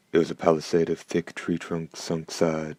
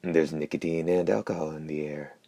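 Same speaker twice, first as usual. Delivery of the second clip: lightly voiced hoarse creature. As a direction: rasp it matter-of-factly. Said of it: "the hoarse voice continued".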